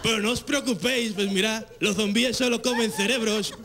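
mock Castilian accent with lisped z; laughing fake Spanish accent. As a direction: ham up the Spain Spanish zombie actor. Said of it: "con un acento español".

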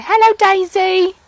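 put-on high, slow, loud baby-talk prompt; sing-song demo for a toddler. Shown as a demonstration. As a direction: model the words slowly for a small child.

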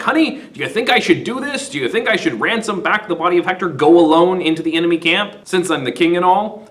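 asking his wife for approval, a touch hammed; Priam asking wife. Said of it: "He's like".

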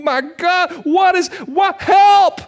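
high panicked shout for help; panicked cry. Retold or imitated. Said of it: "Habakkuk's like".

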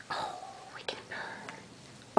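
slow, hushed whisper to the cat; slow soft whisper over a purring cat. Real, not acted. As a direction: breathe it slowly so you don't disturb her.

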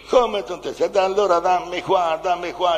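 acted burst of impatience; losing patience. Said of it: "mi scappò la pazienza io".

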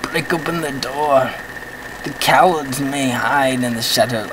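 badly faked Russian accent; poor Russian accent. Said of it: "I can't really do a good Russian accent".

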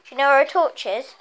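loud and quick, calling to another room; yelling across the room. Real, not acted. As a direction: shout the question to someone far off. Asking dad across house.

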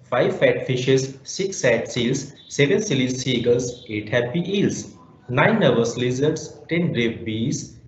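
reading a rhyme aloud to a class; poem recitation. Shown as a demonstration. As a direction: recite it with a steady beat, one count per line. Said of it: "Please listen to me attentively".

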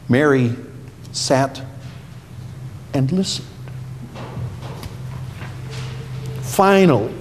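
put-on reading to children. A narrator's reading. Pastor reads Bible story to kids.

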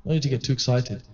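soft, low inner voice telling a friend to chill; hushed calming aside. Retold or imitated. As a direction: talk him down quietly in your head. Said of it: "I thought".

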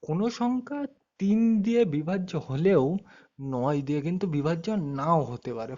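slow, measured rule dictation. Shown as a demonstration. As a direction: dictate the rule slowly for note-taking. Teacher dictating rule for notebooks.

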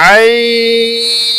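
আইন held long and steady from the throat; drawn-out letter name. Shown as a demonstration. Teacher showing students the throat letters, long held tone. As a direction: stretch আইন slowly on one pitch, like a recitation. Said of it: "খেয়াল করেন, ভালো করে খেয়াল করেন".

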